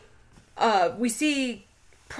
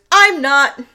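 put-on child's flat reply; 5 semitones higher, 11 dB louder than usual. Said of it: "And Henry goes".

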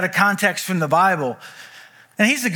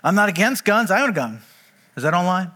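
ordinary delivery

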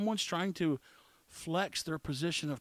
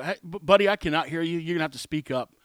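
loud call to speak up; 5 dB louder, faster than usual. Retold or imitated. Telling mumbling guard speak up.

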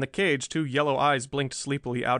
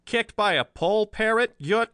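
slow, much higher scoffing repeat; mocking echo; 9 semitones higher, 5 dB louder, slower than usual. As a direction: throw his words back in disbelief. Bland mocks Riley's claim.

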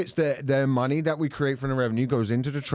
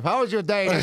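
mock timid wife; 6 semitones higher than usual. Fifties husband parody.

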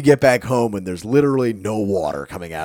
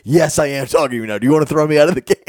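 fast, louder sarcastic challenge; mock defiant player; 6 semitones higher, 7 dB louder, much faster than usual. Kevin Durant daring the referee to eject him, mock defiant. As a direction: dare her to throw him out. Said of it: "He's like".

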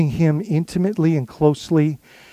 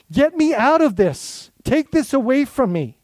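pleading complaint; 6 semitones higher than usual. Pretend. Voices a plea to escape.

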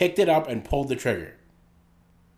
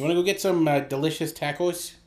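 mock Canadian accent; 3 semitones higher than usual. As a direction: play it as a Canadian hoser. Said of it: "I can't do that accent like you can".

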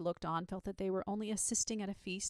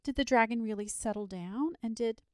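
put-on loud, eager child's questions; eager cry; 4 semitones higher, 7 dB louder than usual. A narrator's reading. Charlotte asking the man about the dragon, eager. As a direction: press eagerly for more. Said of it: "cried Charlotte".

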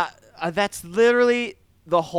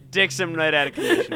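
laughing repeat. Real, not acted. Repeating joke while laughing.

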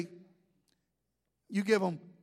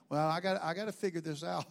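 confused cashier; 8 semitones lower, 7 dB quieter, faster than usual. Retold or imitated. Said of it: "pull a calculator out".

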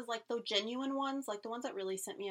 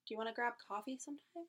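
asking someone out; 2 semitones higher than usual. Shown as a demonstration. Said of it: "you need to say hello in a good way".

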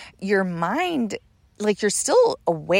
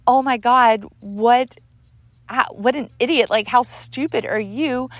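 high, loud exasperation at oneself; pitched-up, halting self-scolding; appalled self-reproach; 6 semitones higher, 4 dB louder than usual. Retold or imitated. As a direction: berate yourself in disbelief. Scolding herself over the mistake.

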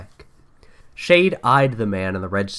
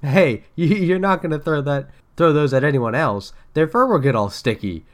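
mild cry; 3 semitones higher, 3 dB louder than usual. Acted. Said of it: "cried Tails".

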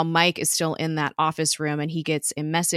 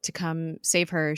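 ordinary delivery

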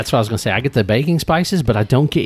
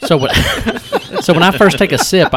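laughing; 8 semitones higher, 6 dB louder than usual. Real, not acted. Laughing while explaining.

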